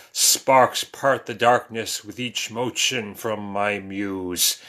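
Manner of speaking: low, slow, intimate poem recital; poetry reading. Acted. Reads own romantic poem.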